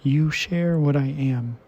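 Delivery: measured poem recital with lingering pauses; poetry reading. Acted. Reader sharing a translated love poem with listeners, measured recital. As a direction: read it unhurried, pausing between phrases.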